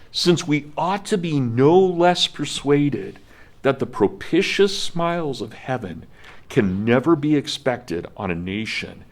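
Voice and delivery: measured, stately reading of a historic address; formal speech reading. Acted. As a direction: read it like a solemn oration. Reads Washington quote aloud.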